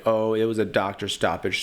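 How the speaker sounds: lightly mocking excuse voice; mock his lame excuse, lightly; mocking Conor. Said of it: "saying some crap like".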